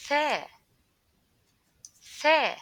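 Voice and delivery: Tha with tongue between teeth, loud; slow exaggerated speech modeling. Shown as a demonstration. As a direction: stress the th of Tha clearly. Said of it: "put your tongue between your teeth".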